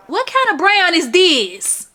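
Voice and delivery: put-on loud, slow Russian accent; strong Russian accent rant. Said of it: "In the strongest Russian accent".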